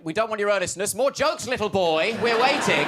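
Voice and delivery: a hint of a jeering audience; mocking crowd. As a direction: tease him like an impatient heckler. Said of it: "You just looked at me and went".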